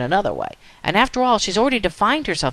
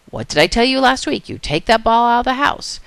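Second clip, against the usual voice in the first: higher, raised voice of a fed-up mother; acted stern telling-off; scolding mom; 6 semitones higher, 4 dB louder than usual. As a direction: play mom reprimanding her daughter. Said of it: "Mom looks over at her and says".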